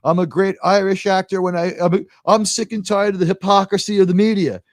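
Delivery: lightly imitated Irish accent, indignant; a hint of Irish in a star's snit; mock-indignant Irish actor; Richard Harris's Irish accent. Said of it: "you know, with the accent".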